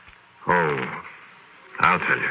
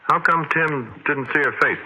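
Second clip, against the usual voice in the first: startled question; 10 semitones higher, slower than usual. Acted.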